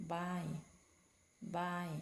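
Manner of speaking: slow, careful teacher model of buy; slow model word. Shown as a demonstration. Teacher models buy slowly for pupils. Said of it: "อ่านว่า buy".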